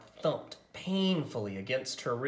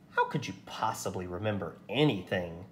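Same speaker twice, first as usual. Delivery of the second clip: exclaiming; 5 semitones lower, faster than usual. Acted. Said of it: "Chizuko exclaimed".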